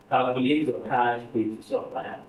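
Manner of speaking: "Calculate your cash with your plan" said slowly, word by word; slow dictation. Shown as a demonstration. Teacher dictating the task to the class, slow and careful. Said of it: "repeated dictation".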